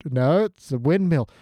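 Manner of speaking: put-on daft northern English accent; idiot northern English character. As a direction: marvel like a simple-minded northern English character. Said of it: "our idiot northern character".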